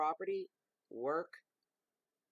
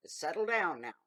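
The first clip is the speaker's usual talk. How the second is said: mock soothing command; 2 semitones higher, 6 dB louder than usual. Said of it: "telling a bagged bobcat".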